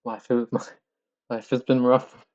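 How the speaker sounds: mock-tragic lament through giggles; laughing while joking that life is hard. Real, not acted. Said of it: "let me laugh a little bit".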